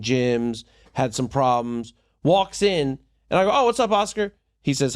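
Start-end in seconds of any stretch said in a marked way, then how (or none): 3.5-4.3 higher-pitched retold hello; greeting by name. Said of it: "you greet them by name".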